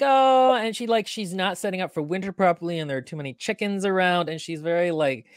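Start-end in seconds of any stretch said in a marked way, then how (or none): 0.0-0.5 high, louder flustered fuss; high-strung fuss. Retold or imitated. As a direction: fluster like a nervous old fairy. Describing the fussy old lady.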